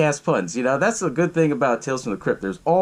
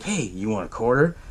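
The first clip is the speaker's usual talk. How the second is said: lower, softer creepy stranger voice; mock creepy stranger, lower and hushed; creepy offer; 4 semitones lower, 3 dB quieter than usual. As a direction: offer the quarter with a sly creepy lilt. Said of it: "kinda creepy the way how he did it".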